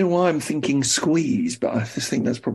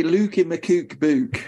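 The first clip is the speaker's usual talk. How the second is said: slow, drawn-out Macclesfield vowels; Macclesfield accent; much slower than usual. Shown as a demonstration. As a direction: say it broad Macclesfield, slowly. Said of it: "You've got a proper Mac accent".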